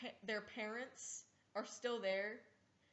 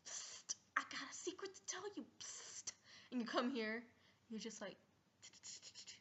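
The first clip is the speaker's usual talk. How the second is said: unvoiced hushed whisper, quick; secret whisper; 8 dB quieter than usual. Friend leaning over in class, whispering a secret.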